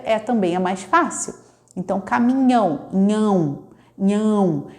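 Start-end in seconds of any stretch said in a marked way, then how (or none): 2.9-4.7 nhão said twice, dropping the ca and mi; child's clipped word. Shown as a demonstration. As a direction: toddler saying nhão for caminhão. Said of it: "Ela não faz o N H".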